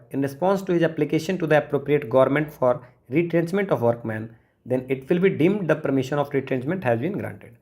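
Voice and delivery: slow, careful reading of the exam question. Acted. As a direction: read it out word by word for students. Reads exam question aloud. (धीमी गति से प्रश्न पढ़ना)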